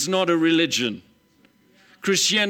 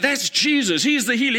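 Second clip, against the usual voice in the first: excited; 7 semitones higher than usual. Retold or imitated. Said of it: "He's like so excited".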